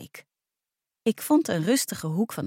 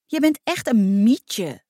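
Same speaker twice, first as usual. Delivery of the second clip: drawn-out taunting call, louder; mild shout; 3 semitones higher, 5 dB louder, slower than usual. A narrator's reading. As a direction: call out the insult slowly, half-shouted. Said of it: "schreeuwde Alma".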